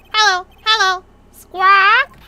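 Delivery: loud, high parrot squawking; Polly. Acted. Parrot greets visitors in the empty shop, squawking. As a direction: mimic a parrot, ending on a rising squawk. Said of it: "his poor parrot".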